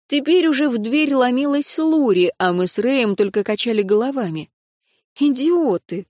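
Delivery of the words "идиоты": ordinary delivery, nothing marked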